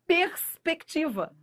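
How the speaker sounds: "Perspectiva" said slowly, with the R, S, C and T all clearly sounded; every consonant sounded. Shown as a demonstration. Teacher modelling the careful way to say "perspectiva". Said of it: "pronuncie pra você ver".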